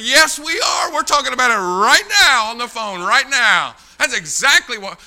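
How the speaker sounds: high, shouted comeback; heated insistence. Retold or imitated. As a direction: shout down the objection emphatically. Acted heated argument.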